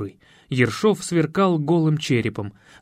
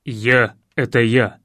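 low, slow, hoarse and smiling; smiling hoarse coach; 4 semitones lower, 4 dB louder, slower than usual. A narrator's reading. Coach reveals himself to his old pupil, smiling hoarsely. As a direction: grin through a rough man's voice. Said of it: "улыбнулся новый тренер".

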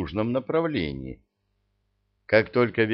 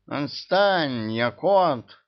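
high squealing protest; 6 semitones higher, 4 dB louder, much slower than usual. A narrator's reading. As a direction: shriek it out in panic. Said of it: "заверещал Мурзик".

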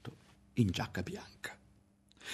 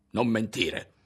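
snapped louder at her; a sudden raised accusation; voice raised suddenly; 3 semitones higher, 5 dB louder, slower than usual. Acted. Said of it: "si alzò di colpo la voce di Berto".

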